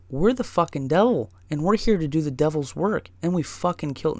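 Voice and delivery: kidding as intruders announcing themselves; mock devil boast. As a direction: ham up a fake devil threat. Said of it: "no, I'm just kidding".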